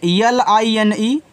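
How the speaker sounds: slow spelling. Shown as a demonstration. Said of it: "spelling letters out slowly".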